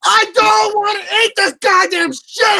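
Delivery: shouting refusal. Real, not acted. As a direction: yell it out in disgust. Forced to eat, shouting refusal.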